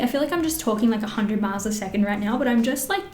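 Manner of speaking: alarmed. Real, not acted. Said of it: "I'm so alarmed".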